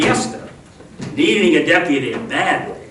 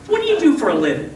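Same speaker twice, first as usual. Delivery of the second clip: rushed question; 10 semitones higher, much faster than usual. Acted. Hurried high question.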